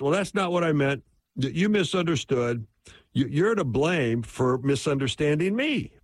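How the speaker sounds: mock defensive retort. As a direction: push the blame back, mildly indignant. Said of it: "that's what defensiveness sounds like".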